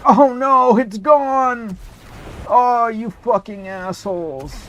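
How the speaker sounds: high, loud dismayed yelp; suddenly loud, real frustration; shocked outburst. Real, not acted. Weapon lost in game.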